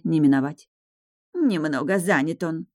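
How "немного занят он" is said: sulky grumble. Acted. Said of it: "обиженно пробурчала Алианна".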